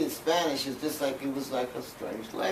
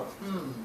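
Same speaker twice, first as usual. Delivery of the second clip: soft, higher-pitched pondering "hmm"; thoughtful hum; 4 semitones higher, 8 dB quieter than usual. Retold or imitated. A little kid puzzles over a cartoon, thoughtful hum. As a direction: hum to yourself while puzzling it out. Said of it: "I'm thinking about it".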